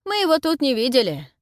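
loud shout to a deaf granny. A narrator's reading. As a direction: call it out loudly so she hears. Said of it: "крикнул Картавый". (громко кричит глухой бабке)

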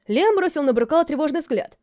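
usual speaking voice

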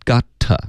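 "got to" run together as "gotta"; slow teacher's model of linked "gotta"; reduced "gotta". Shown as a demonstration. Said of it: "我们就发gotta".

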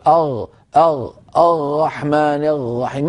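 "أغ، أغ، الرحمن الرحيم" with a throaty ghayn for every ر; failed attempt at ra. Shown as a demonstration. Teacher imitating a student who cannot lift his tongue, "الرحمن الرحيم" with ghayn-like ra. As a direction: strain for ر in "الرحمن الرحيم" and land on غ, drawn out slowly. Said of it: "مهما حاول أن يرفع لسانه".

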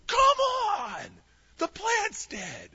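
high, loud, whiny protest; chapped whine. Retold or imitated. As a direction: whine it like a sulking kid. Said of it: "Jonah just gets chapped".

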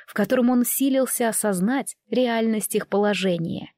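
plain reading voice

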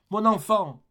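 put-on high, loud cry for her child; anguished cry. Dying Fantine calls for her daughter, high and loud. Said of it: "s'écria-t-elle".

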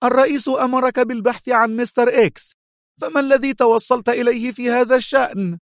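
high-pitched, stern woman's demand; angry sternness. A narrator's reading. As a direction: press him angrily, voice pitched high. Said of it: "فقالت في صرامة غاضبة".

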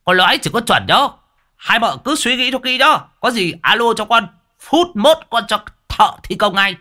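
put-on high bragging old huckster; hollering old man. A narrator's reading. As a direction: brag while running for the door. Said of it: "miệng ngoạc lên".

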